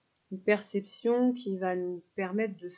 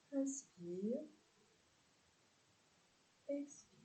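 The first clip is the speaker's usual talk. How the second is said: softer, unhurried breathing instructions; guided yoga cues; 5 dB quieter than usual. Real, not acted. Yoga teacher guiding neck stretches with the breath, calm guided delivery. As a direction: guide the breath gently, with spaces between cues.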